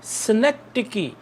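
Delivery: synecdoche drawn out very slowly, syllable by syllable; slow teacher demo of synecdoche; slow model pronunciation. Shown as a demonstration. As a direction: spell out synecdoche slowly for repetition. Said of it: "जब दोहराएंगे तो आपको समझ आएगी".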